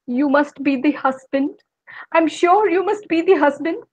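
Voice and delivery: lightly voiced devil, questioning; a hint of the devil sizing him up. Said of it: "Mister Devil looked up at him and he said".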